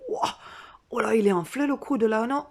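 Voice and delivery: loud surprised oh là; alarmed exclamation. Acted. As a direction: react like you just saw it swell. Discovering swollen elbow.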